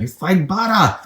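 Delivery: deep, lightly voiced redneck twang; redneck accent. Shown as a demonstration. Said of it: "that was deep and redneck".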